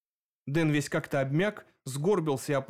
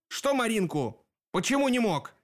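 barked question; 8 semitones higher than usual. A narrator's reading. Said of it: "рявкнул Сеп".

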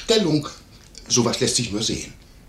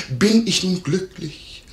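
high, slow mimicry of the lady; imitated outcry; 7 semitones higher, slower than usual. Landlord imitating the distraught lady, high slow outcry. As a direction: raise the pitch and draw out her question. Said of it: "rief sie, die Augen auf mich gerichtet".

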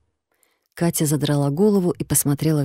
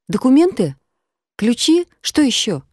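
much higher, louder alarmed questions; anxious rapid questions; 8 semitones higher, 4 dB louder than usual. Acted. Katya anxiously questions the stranger about her things, urgent. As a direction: fire off worried questions. Катя в тревоге расспрашивает.

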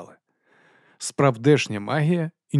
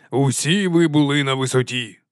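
higher, rallying praise; encouraging; 4 semitones higher, 3 dB louder than usual. A narrator's reading. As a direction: cheer the troops on. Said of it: "підбадьорив їх верховний гросмейстер".

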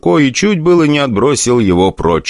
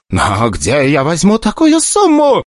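high, slow, near tears; desperate director near tears; almost sobbing; 10 semitones higher, slower than usual. Acted. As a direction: plead close to crying. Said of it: "чуть ли не рыдая".

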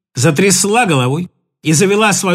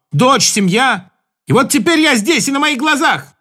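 raised, breaking complaint; anguished outburst; 4 semitones higher than usual. Acted. Husband bursting out at his wife in anguish. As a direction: pour out years of grievance.

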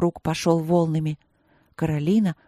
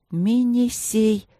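high, slow, delighted reading; joyful; 5 semitones higher, much slower than usual. A narrator's reading. Princess manages to read the distant sign, joyful. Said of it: "прочитала Каролина радостно".

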